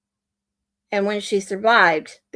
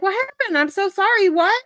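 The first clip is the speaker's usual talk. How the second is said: much higher, worried reply voice; higher pitched mock concern; imitating herself; 9 semitones higher, 3 dB louder than usual. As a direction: sound like a startled, concerned friend. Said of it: "I'm like".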